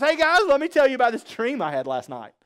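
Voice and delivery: breezy announcement. Acted. Joseph bursts in on his brothers to share a dream, breezy. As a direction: chirp it like an oblivious little brother, lightly hammed up.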